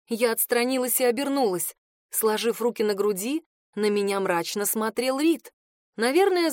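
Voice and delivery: ordinary delivery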